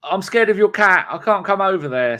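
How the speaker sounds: mock the man as a wimp; lightly voiced frightened man; timid buyer. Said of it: "And he went".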